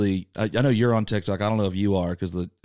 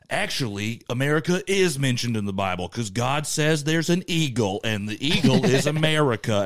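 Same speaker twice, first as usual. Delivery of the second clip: mock Southern know-it-all, pitched up; Southern accent; 5 semitones higher than usual. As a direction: explain it earnestly in a put-on Southern accent. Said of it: "always a Southern accent we use".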